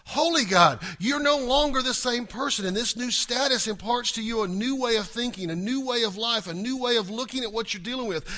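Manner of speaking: usual speaking voice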